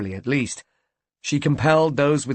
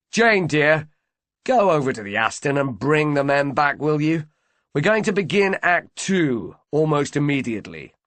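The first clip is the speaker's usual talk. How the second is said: raised voice across the room; calling out; 4 semitones higher, 3 dB louder than usual. Acted. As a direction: call out to the whole room.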